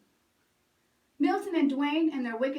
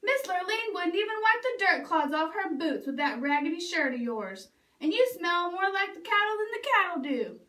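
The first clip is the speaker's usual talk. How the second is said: higher, jeering ridicule; mocking taunt; 4 semitones higher than usual. Stepdaddy and brothers ridiculing Bubba's smell, jeering. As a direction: rub his nose in it.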